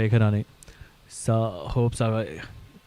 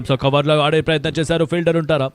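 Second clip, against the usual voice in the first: rising, louder call of the shot; excited cricket commentary; 4 semitones higher, 6 dB louder than usual. Real, not acted. Shot into the covers. (ఉత్సాహంగా cricket వ్యాఖ్యానం)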